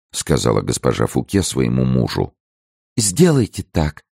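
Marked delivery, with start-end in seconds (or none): 3.0-4.0 high, slow, gentle request; pleading. A narrator's reading. Lady begging Fouquet to accept the plan, pleading. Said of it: "попросила госпожа де Бельяр".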